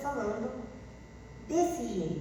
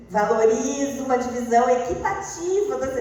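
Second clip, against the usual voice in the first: louder mock-formal recital; stiff formal phrasing; 6 dB louder than usual. Shown as a demonstration. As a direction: recite it like a textbook. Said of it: "nós não vamos falar assim". (tom formal e engessado)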